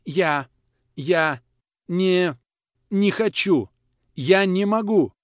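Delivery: high, loud halting cry; boy bursting into tears, high and loud; breaking into sobs. A narrator's reading. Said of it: "сдержанные рыдания".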